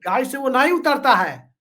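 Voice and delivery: mild imitation of a political speaker; Himanta Biswa Sarma's tone. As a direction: lightly mimic a politician's delivery. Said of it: "ऐसे ही बोलते हैं ना".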